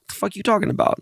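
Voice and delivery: high-pitched mock disbelief; retold incredulous challenge. Retold challenge to his friend.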